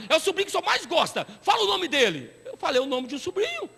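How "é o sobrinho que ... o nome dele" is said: lightly voiced pleading caller, a bit higher; a hint of a wheedling young caller; scam caller. Prisoner calling the pastor collect, lightly wheedling. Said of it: "eles têm uma lábia".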